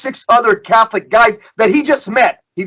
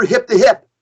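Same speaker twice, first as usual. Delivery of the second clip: barked command. Retold or imitated. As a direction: call it out like a drill command. Brother commanding his group.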